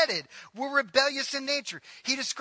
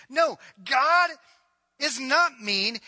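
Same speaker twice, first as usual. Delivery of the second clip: loud burst of denial; shouted rebuttal; emphatic shout; 2 semitones higher, 5 dB louder, slower than usual. Real, not acted. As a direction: cut them off hard. Pastor rebuts doubt forcefully.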